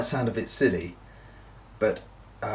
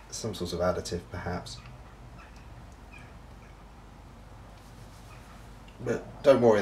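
talking around pipe stem; tags: pipe in mouth; 4 semitones lower, 6 dB quieter than usual. Real, not acted. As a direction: teeth gripping pipe. Seen 0: Pipe stem held in mouth throughout; references show pipe only in hands.

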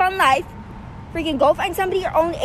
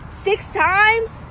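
high, disbelieving question; stunned disbelief at six passes; incredulous; 6 semitones higher than usual. Real, not acted. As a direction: ask it like you can't believe it.

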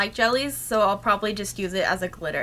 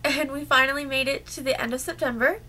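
hoarse from a cold; sick voice; 2 semitones higher than usual. Real, not acted. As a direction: talk through a sore, sick throat. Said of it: "please excuse my voice".

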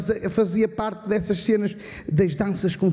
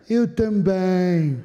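low, slow, lifeless answer; deadpan mimicry; 4 semitones lower, much slower than usual. Second guy in the shop answering, low and slow. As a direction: drag the words out, bored to death. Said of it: "E o outro".

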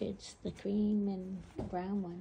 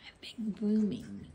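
whisper; 4 dB louder than usual. Real, not acted. Whispering near the animals.

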